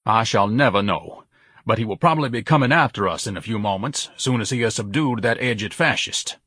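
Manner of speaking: lightly voiced pompous son; a hint of lofty, measured indignation.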